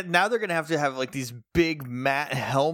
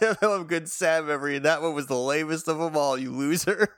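mock taunt; 3 semitones higher, faster than usual. S1 redoes villain taunt.

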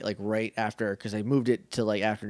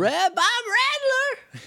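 high, excited name call; hype man shout; faster than usual. Acted. Echoing name with big hype.

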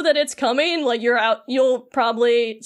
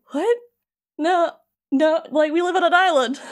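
baffled Sora; 5 semitones higher than usual. Retold or imitated. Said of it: "he's just like".

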